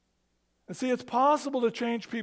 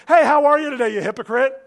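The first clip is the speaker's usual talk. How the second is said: mock cheerful greeting; 4 semitones higher, 10 dB louder, faster than usual. Mock friendly greeting at lunch.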